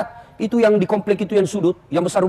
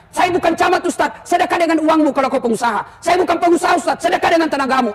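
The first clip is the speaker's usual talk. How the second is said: whiny excuse-maker; 7 semitones higher than usual. Retold or imitated. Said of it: "excuses of reluctant people".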